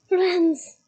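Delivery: a loud, high thundering shout of his name; thundered. A narrator's reading. Bane the centaur stops Firenze carrying a human, thundering. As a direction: roar it out to stop him short. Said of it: "Bane thundered".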